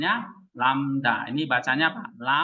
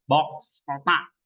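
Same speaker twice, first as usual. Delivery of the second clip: slow model word; much slower than usual. Shown as a demonstration. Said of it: "aks, kapak ya kan".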